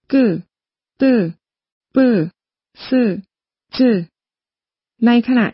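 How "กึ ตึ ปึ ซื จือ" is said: กึ ตึ ปึ ซื จือ with a little extra force on each onset; tense, unaspirated กึ ตึ ปึ ซื จือ; tense paired consonants. Shown as a demonstration. Teacher modelling paired consonants กึ ตึ ปึ ซื จือ, pushed slightly. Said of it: "ต้องออกแรงนิดหน่อย".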